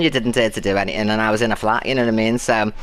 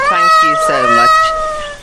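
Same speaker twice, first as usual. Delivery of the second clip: squealed thanks; 7 dB louder, much slower than usual. Real, not acted. Ecstatic thanks to a supporter.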